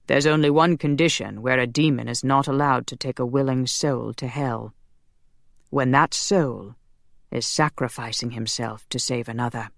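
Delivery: measured explanation sinking low at phrase ends; lightly voiced solemn angel. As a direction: explain the rule gravely. Zachriel explains the rule.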